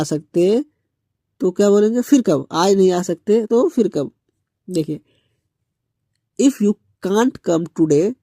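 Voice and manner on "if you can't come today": very slow, every word laid out for learners; slow model sentence. Shown as a demonstration. Teacher modelling English for students, very slow. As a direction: say it slowly so students can copy.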